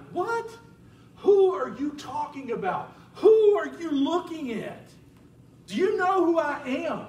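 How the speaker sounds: high and loud disbelief; can't believe he's being called a warrior; startled, laughing disbelief; incredulous. Acted. Gideon baffled by God's greeting.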